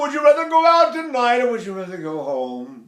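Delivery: talking very high and loud in a sigh; high sighed speech. Shown as a demonstration. Voice teacher showing speech placed high in a sigh, shouted. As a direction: ride the sigh up top and chat away. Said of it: "if I sigh and I'm up here like".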